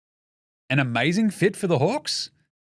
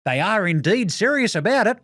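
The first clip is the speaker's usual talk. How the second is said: prim, stiff reporter voice; dorky journalist; 6 semitones higher than usual. Retold or imitated. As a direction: read it like a pompous nerd. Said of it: "dork journalists are the funniest".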